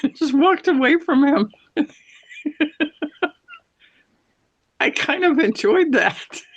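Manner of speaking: laughing. Real, not acted. Telling a friend about snubbing the Bachelor, laughing. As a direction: giggle as you admit it.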